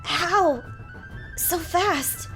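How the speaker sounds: disbelief at the speed; shocked knight. Acted.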